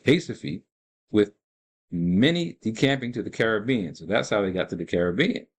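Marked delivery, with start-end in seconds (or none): 0.1-0.6 "Recife" with an H sound for the R; Portuguese pronunciation. Shown as a demonstration. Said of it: "They don't ma-, pronounce the R there".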